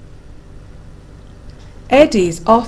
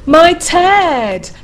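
high, loud startled exclamation; gasped; 9 semitones higher, 5 dB louder than usual. A narrator's reading. Bear spotting its own teddy, shocked gasp. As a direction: gasp it out in astonishment. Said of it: "gasped the bear".

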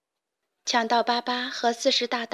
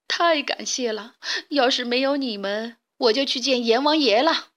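grateful weasel. Acted. Kneeling weasel thanks the chicks who saved him, grateful. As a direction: thank them as if your life was saved.

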